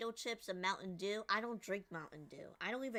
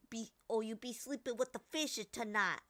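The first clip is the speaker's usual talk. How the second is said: put-on Italian-American mobster accent; 3 semitones higher than usual. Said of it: "I kinda repeated what he said in the accent".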